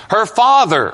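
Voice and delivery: FATHER set apart with emphasis, pitched high; slow emphasis. Real, not acted. Preacher stressing who decides on the marriage, slow emphasis. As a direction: lean hard on FATHER, then pause. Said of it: "say this slowly and with great emphasis".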